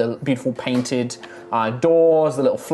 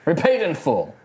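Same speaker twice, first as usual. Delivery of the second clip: put-on Texan accent.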